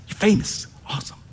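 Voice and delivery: famous lifted up high and hushed. Pretend. Repeated famous.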